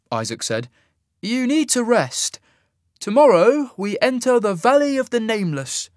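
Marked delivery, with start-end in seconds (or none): 1.2-5.9 measured warning. A narrator's reading. Isaac caution, measured.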